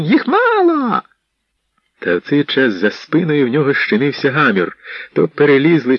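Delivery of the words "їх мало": high, slow drawn-out cry; desperate yell. Acted. Steward urging his men on, high desperate yell. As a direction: urge them on, desperate. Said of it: "заволав Тіун".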